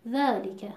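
ذَلِکَ with the lam's kasra rushed; ذَلِکَ with lam barely heard; swallowed lam kasra. Shown as a demonstration.

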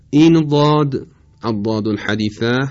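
ض in «ضاد» close to a heavy د; ضاد شبیه دال. Shown as a demonstration. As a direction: say «الضاد» with an emphatic D. («ضاد» مثل دال مُطبَق)

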